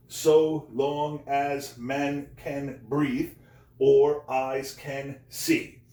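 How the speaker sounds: very slow, each syllable given its own beat. Shown as a demonstration. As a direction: spell out the line as ten drawn-out syllables. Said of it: "Ten syllables".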